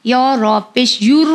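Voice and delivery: "युर" with a full, heavy rolled r; thick r. Shown as a demonstration. Teacher demonstrating the rule, "युर" with heavy r. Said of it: "रॉ मोटा हो गया".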